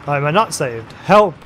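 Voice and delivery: mock-Italian line rising to a loud yelp; hammed-up Italian accent, shout the last word; terrible Italian accent. Luigi realises he is not saved, yelps in terrible Italian accent. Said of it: "That's a terrible accent".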